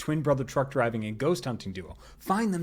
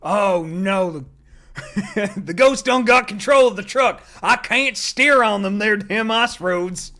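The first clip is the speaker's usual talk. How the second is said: loud, much higher hammed-up Southern trucker panic; Southern accent; 8 semitones higher, 10 dB louder, slower than usual. Streamer voicing Southern ghost trucker, loud hammed-up Southern panic. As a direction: yell it like a hillbilly trucker losing the wheel. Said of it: "Now they're Southern".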